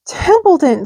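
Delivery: high, loud despairing call. A narrator's reading. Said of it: "said Wilbur in despair".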